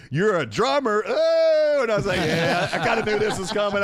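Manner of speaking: excited. Retold or imitated. Excited retelling.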